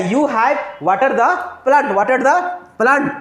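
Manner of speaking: stretched, deliberate dictation pace; slow dictation. Shown as a demonstration. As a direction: spell it out slowly for the class to copy. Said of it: "You क्या?".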